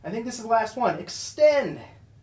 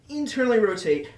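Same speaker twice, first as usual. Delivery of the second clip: laughing; 5 semitones higher, 6 dB louder than usual. Real, not acted. Laughs after restarting the set.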